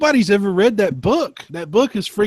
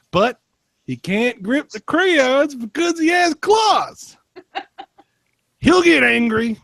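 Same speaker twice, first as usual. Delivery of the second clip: slightly exasperated reading; 2 semitones higher than usual. Acted. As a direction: read it like a parent who has had enough of this guest. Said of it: "The slightly exasperated one".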